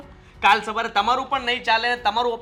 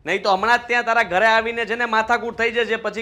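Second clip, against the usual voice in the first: angry threats; 3 semitones higher, 5 dB louder than usual. Acted. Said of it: "જોર જોરથી ગુસ્સામાં વાત કરે છે".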